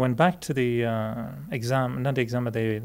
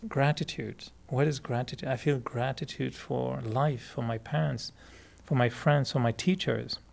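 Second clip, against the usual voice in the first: meditative; 4 dB quieter than usual. Shown as a demonstration. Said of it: "you meditate and you think".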